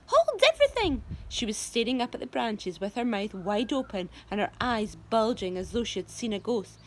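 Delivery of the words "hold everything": high alarmed cry. A narrator's reading. Spiker alarmed.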